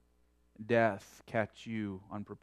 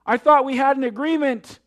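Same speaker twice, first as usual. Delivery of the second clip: higher, louder desperate cry; despairing cry; 13 semitones higher, 13 dB louder than usual. A narrator's reading. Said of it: "he cried out in despair".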